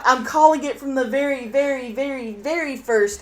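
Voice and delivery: loud, insistent fan rant; heated fan outburst retold. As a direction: reenact an indignant know-it-all outburst. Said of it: "And I was like".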